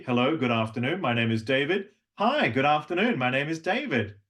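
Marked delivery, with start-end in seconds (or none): 2.2-4.2 higher greeting; level two greeting. Shown as a demonstration. Coach contrasting level two with level three, higher. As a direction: lift it up a notch. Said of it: "level two".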